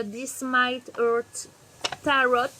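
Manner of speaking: This Might Hurt Tarot said slowly with a southern French accent; English title in a Marseille accent. Real, not acted. Reading an English tarot deck name with her Marseille accent. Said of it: "Avec mon accent la wad again".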